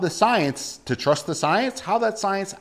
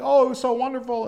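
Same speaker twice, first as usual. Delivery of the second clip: mock gushing; 8 semitones higher than usual. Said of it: "getting all emotional about it".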